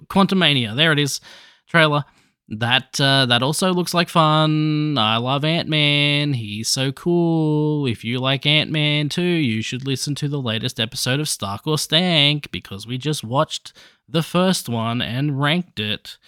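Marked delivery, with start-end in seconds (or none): 5.0-16.2 odd slow voice. Pretend. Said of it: "I don't know why I was talking like that".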